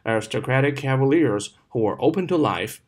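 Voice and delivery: slight break between "cavaliers" and "who"; phrase it "cavaliers", brief pause, "who were open to life"; teacher's model phrasing, pausing before "who". Shown as a demonstration. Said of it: "who前面可以停一下下".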